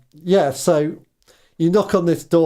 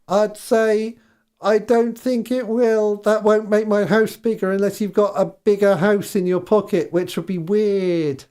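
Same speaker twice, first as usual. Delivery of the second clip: tart housewife; 4 semitones higher than usual. Acted. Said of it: "She says".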